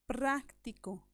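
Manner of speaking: práctico slowly, with prác stretched; slow teacher's demo of práctico, stressing the first syllable; stress on antepenultimate syllable. Shown as a demonstration. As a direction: lean hard on prác in práctico. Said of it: "elevación de voz".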